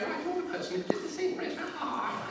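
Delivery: high-pitched vague royal voice; the Queen. Acted. Monarch working out whose hand she shakes, high voice. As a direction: place the person in a high, polite voice. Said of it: "She's just kinda going".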